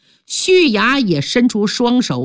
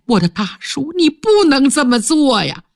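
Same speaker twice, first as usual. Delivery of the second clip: 哭出声来; 5 semitones higher than usual. Acted. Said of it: "哇地上哭出声来".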